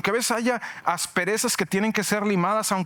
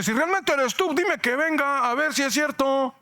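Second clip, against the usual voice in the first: 1 Peter's bold challenge; 7 semitones higher than usual. Acted. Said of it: "Pedro le dice".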